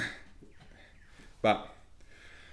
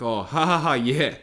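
mock laugh; 2 semitones higher, 5 dB louder than usual. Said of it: "instead of it being like".

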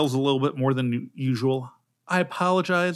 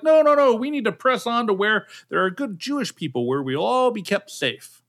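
loud refusal; 6 semitones higher, 3 dB louder than usual. Retold or imitated. Voicing travelers refusing Jerusalem.

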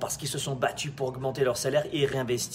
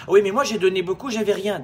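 whiny protest; 7 semitones higher, 9 dB louder than usual. Retold or imitated. Imitating a complaining employee.

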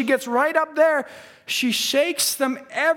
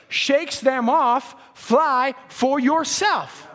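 slow emphatic quote; much slower than usual. Shown as a demonstration. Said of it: "the next paragraph, he says".

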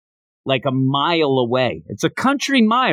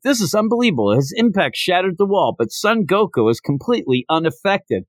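lightly voiced ring announcer, pitched up at first; 5 semitones higher than usual. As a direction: call it like an amazed commentator, easing down. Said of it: "having the announcer".

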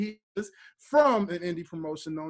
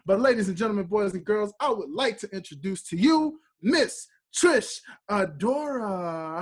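ringmaster; 3 semitones higher than usual. Acted. Host announces guest like announcer.

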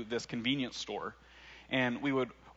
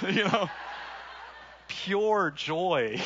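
real laugh, high and louder; 7 semitones higher, 3 dB louder, much slower than usual. Real, not acted. Preacher recalling the Michigan moment, laughing out loud. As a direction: let the laugh break through the words.

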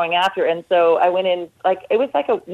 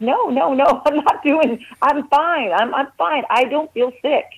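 tearful denial; 7 semitones higher than usual. Retold or imitated. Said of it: "I was in tears".

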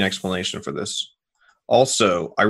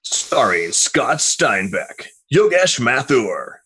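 slow, drawn-out trailer announcer; a hint of epic movie narrator; 3 semitones higher, much slower than usual. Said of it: "like, movie guy trailer voice".

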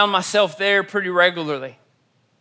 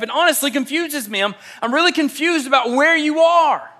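higher, puzzled, earnest friend voice; a friend laying out his confusion; confused friend; 4 semitones higher than usual. Retold or imitated. Friend confronts his double life.

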